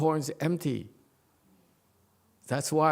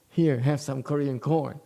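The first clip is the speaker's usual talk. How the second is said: laughing through the words; chuckling offer of corn; 4 dB louder than usual. Real, not acted. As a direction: hand it over with a laugh.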